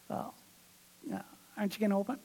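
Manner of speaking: quick, eager little nudge; rushed nudge. Retold or imitated. Husband hurries his wife to open the gift, quick and eager. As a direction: hurry the question out, a bit hurt.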